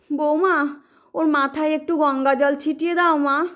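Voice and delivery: a mild plaintive, distressed tone; distressed plea. Acted. Mother pleads with son in mild distress. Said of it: "মা কাতর গলায় বলেন".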